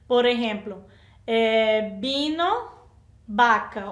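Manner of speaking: "vino" and "vaca" both said with a b sound; v spelled but voiced as b. Shown as a demonstration. Teacher showing students the same b sound. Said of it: "Observen que es la B, el sonido de la B".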